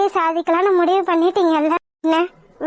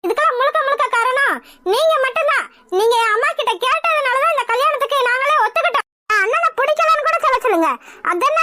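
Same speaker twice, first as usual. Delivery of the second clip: higher-pitched, offended complaint; indignant protest; 3 semitones higher than usual. Acted. Groom's sister blaming the bride's mother, indignant protest.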